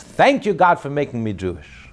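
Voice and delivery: high, loud cry of thanks. Retold or imitated. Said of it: "the Jew cried out".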